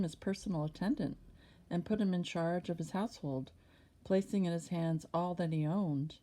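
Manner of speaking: measured, clearly projected Bible reading; scripture narration. A narrator's reading. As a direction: read the sacred story aloud with deliberate phrasing. Reads scripture aloud.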